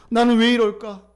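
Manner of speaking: high, pleading lament in Hannah's role; anguished self-questioning. Acted. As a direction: cry out in protest at being mistreated. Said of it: "한나도".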